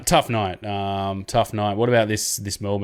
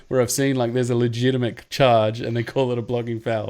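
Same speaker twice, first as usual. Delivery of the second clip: mock amazement; 3 semitones higher than usual. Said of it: "And I'm like".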